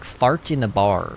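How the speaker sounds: slow attempt at an Irish accent on fart in a bar; Irish accent practice phrase; Irish accent drill. Shown as a demonstration. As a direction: try the Irish dialect phrase slowly. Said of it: "if you wanna do an Irish dialect".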